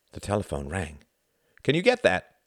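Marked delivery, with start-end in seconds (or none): 1.6-2.4 raised, higher call to another room. A narrator's reading. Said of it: "called Tom".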